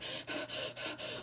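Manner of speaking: soft, shuddery mock sobbing breaths; quick voiceless pretend sobs; imitated crying breaths. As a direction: act out crying with breath alone. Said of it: "crying again".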